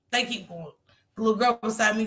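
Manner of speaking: hushed aside. Real, not acted. Quiet aside on bus.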